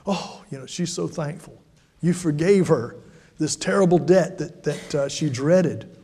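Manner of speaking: ordinary talk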